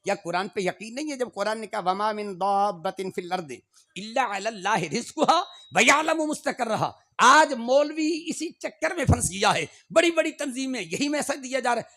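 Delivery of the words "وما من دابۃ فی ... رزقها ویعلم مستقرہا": Quran recitation. Real, not acted. Quoting the Quran.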